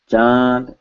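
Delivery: "Chand" with nasal vowel straight into d; N left out. Shown as a demonstration. Teacher showing the wrong pronunciation, N left out. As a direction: say "Chand" without any n sound. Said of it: "is actually wrong".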